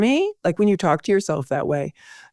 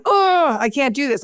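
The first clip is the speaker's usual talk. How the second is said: mimicking daughter; 7 semitones higher than usual. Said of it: "hear her in the kitchen going".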